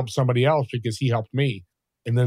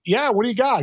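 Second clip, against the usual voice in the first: put-on eager young voice; 10 semitones higher than usual. Young self answering eagerly.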